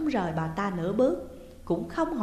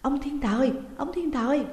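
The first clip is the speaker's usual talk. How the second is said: higher, louder, urgent call; 6 semitones higher, 3 dB louder than usual. A narrator's reading. Wife calling her unresponsive husband, urgent and loud. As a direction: call him again and again, panicked. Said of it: "Bà gọi đến mấy lần".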